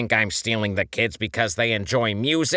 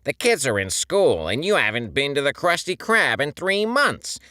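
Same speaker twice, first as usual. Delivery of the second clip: mounting rage; 6 semitones higher, 4 dB louder than usual. A narrator's reading. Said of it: "his mounting rage".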